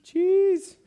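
high, loud ecstatic cry of cheese; hungry mouse shouting for cheese; greedy mouse. Pretend. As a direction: squeal for the cheese in delight. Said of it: "He's going".

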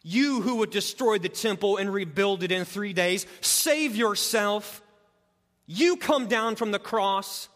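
lightly voiced mocking crowd; mild mock jeer. Preacher reading the passersby's taunt, mildly sneering. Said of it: "derided him, wagging their heads and saying".

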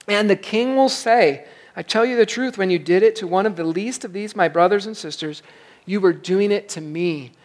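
measured Bible reading to the congregation; scripture reading. Acted. Pastor reading Matthew aloud to the congregation, measured scripture reading. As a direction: read the passage out to the church.

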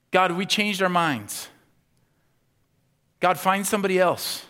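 loud, high pleading prayer; mock whiny prayer. Preacher mocking a comfortable church's prayer, loud pleading. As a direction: beg God to make it stop. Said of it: "what is their prayer at that point".

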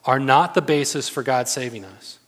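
forceful paraphrase of an emphatic writer. Acted. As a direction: drive the point home loudly. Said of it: "He's emphatic".

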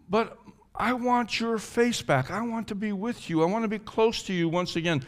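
yearning prayer to God; longing plea. Acted. Voices David longing for God.

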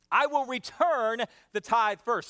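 slow, deliberate recital; slow call to repeat. Shown as a demonstration. Pastor leading the repeat, slow and deliberate. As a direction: lead the congregation slowly. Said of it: "Say that with me".

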